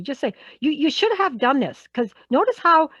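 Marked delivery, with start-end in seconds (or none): 0.6-1.9 "should have done this" with rising pitch, not quite angry; voice going up. Shown as a demonstration. Boss pointing out a missed task, voice going up. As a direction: let the voice lift on the reproach. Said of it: "my voice goes up".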